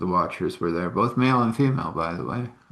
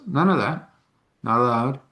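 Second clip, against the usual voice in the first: higher-pitched, firm retold order; firm command; 3 semitones higher than usual. Shaman forbids the spirit to act, commanding. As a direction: cut it off with authority.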